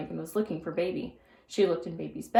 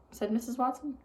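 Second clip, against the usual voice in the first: plain reading voice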